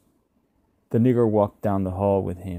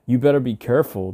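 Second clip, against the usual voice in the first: neighbour's voice; 5 semitones higher, 6 dB louder, faster than usual. A narrator's reading. Neighbour warns fallen old man.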